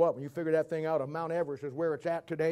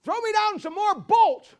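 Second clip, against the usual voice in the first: high, drawn-out call to someone far above; yelling up; 12 semitones higher, 6 dB louder, slower than usual. Acted. Tower worker yelling up for bolts, high call. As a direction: holler it up the tower, slowly. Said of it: "he yells up to Bill".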